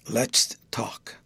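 breathy, low near-whisper; whispery. A narrator's reading. Guardian turning to his young guest, whispery. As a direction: whisper it after clearing the throat. Guardian pulls himself back to talk.

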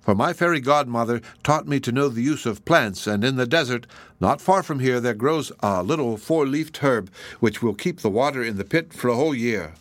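lightly and gaily. Acted. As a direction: sound carefree to comfort him. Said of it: "had spoken lightly and gaily".

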